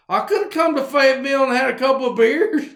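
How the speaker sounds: hammed-up boss who wanted a beer too; boss feeling left out. Boss to worker drinking without him, fast mock complaint. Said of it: "He's like".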